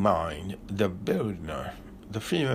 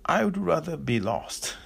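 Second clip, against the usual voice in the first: a gruff hammed-up retort, pitched up; growled; 7 semitones higher than usual. A narrator's reading. The lost Berliner answering the polite Viennese, mock growl.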